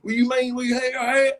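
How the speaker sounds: lightly put-on sugary whine; a hint of a sugar-starved fan; mock diabetic voice, mildly shifted. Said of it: "That sound like a sugary voice".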